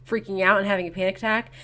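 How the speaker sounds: fast, whispered mock panic. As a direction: rattle it off like a panic attack. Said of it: "the one who's like".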